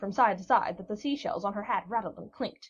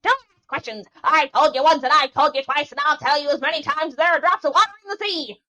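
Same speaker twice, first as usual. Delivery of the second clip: loud, high, exasperated crone; an old witch yelling directions at the sailor; shrieking witch; 4 semitones higher, 10 dB louder than usual. A narrator's reading. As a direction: shout down every question. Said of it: "cried out again".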